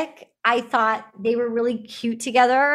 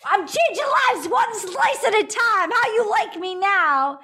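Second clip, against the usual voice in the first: higher-pitched hammed-up bragging; mock cocky boast; 7 semitones higher than usual. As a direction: imitate a swaggering show-off, pitched up. Acting out pizza guy's boast.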